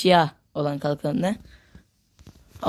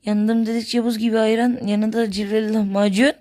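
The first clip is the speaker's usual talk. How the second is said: melodic street vendor shout; 3 semitones higher, 3 dB louder than usual. Acted.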